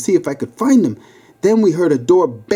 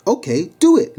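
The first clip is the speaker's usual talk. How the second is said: higher, pushy order to go ahead; demanding; 9 semitones higher than usual. A narrator's reading. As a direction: dare him to do it now. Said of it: "Louis demanded".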